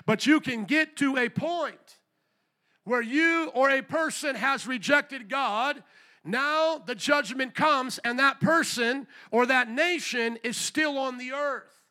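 slow and deliberate, each phrase set down; grave, measured pacing; slow emphasis. Real, not acted. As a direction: let the warning sink in slowly. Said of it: "slow emphasis".

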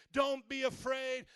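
loud, slow, firm "Don't be afraid"; God's command. Acted. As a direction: proclaim "Don't be afraid" slowly and loudly. God's words quoted, then repeated softly.

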